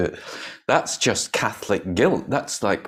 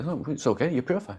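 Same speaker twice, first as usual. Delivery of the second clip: gentle forgiveness; 6 semitones higher, 5 dB quieter, faster than usual. Acted. Voices Buddha forgiving the speaker.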